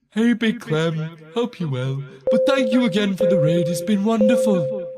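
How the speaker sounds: loud, lilting Welsh thanks; gushing gratitude with a Welsh lilt; accidental Welsh. Pretend. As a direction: slip into a hearty Welsh accent. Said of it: "I don't know why I've turned Welsh now".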